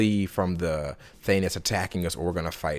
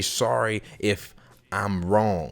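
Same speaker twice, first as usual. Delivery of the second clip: polite apology; much slower than usual. Shown as a demonstration.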